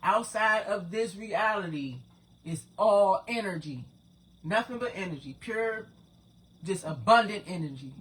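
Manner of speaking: slow, emphatic explanation. Shown as a demonstration. Explaining to viewers so they can understand, slowed down. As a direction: spell it out slowly and forcefully. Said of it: "Let me slow it down for you".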